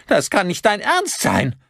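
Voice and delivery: high-pitched outraged disbelief; aghast protest. A narrator's reading. Son protests in alarm.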